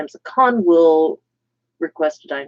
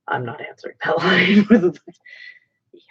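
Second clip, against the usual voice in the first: whispering. Real, not acted. Dodging the Emperor question.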